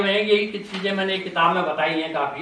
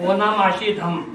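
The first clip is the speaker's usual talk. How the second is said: laughing repeat. Retold or imitated. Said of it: "repeats the garbled form laughing".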